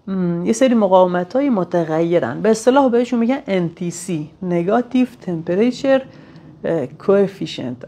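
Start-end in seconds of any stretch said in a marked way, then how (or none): 4.5-7.8 "Negative Temperature" then "Coefficient" said very slowly, syllable by syllable, as English words; careful English term. Shown as a demonstration. Teacher sounding out the English name of NTC for students, very slowly. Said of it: "اگه تلفظش اشتباه نگفته باشم".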